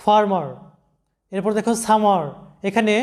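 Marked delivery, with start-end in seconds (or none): 0.0-0.5 ফার্মার with both syllables in "ar", far-mar; pronunciation demo. Shown as a demonstration. Teacher models ফার্মার for students, pronunciation demo. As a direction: say ফার্মার carefully, ending মার. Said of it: "এরকম হবে".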